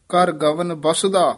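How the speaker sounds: slow, with a short halt after ਬਸੁਦਾ; pause after ਬਸੁਦਾ. Shown as a demonstration. Teacher marking the pause after ਬਸੁਦਾ, slow. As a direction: stop briefly after ਬਸੁਦਾ. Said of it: "ਇੱਥੇ ਠਮਕ ਹੈ".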